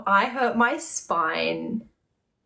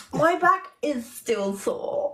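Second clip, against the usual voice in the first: retold pleading; 3 semitones higher than usual. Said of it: "I was like".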